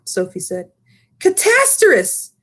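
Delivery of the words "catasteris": high, drawn-out giant exclamation; dismayed cry. Acted. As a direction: cry out in horror at the news. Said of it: "cried the B F G".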